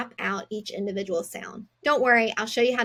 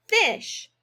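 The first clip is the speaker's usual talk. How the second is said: "Fish" jumps much higher; bright emphasis; 10 semitones higher, 3 dB louder than usual. Shown as a demonstration. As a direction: pop "Fish" up high. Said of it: "going to tap it out".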